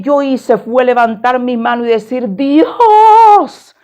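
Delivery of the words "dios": much higher, louder cry to God; desperate cry. Retold or imitated. Trapped between two buses, crying out to God. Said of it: "Yo levanté la mano y grité".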